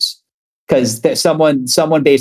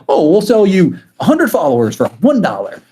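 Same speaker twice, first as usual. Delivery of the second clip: higher-pitched imitation sales pitch; mock spammer; 7 semitones higher than usual. Artist imitating Instagram scam messages, mock salesy. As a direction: mimic a spammer's eager offer, pitched up.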